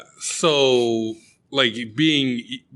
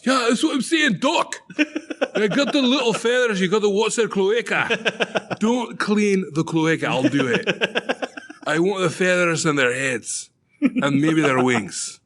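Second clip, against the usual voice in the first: excited insistent caller; 9 semitones higher than usual. Retold or imitated. Acted phone call about ducks.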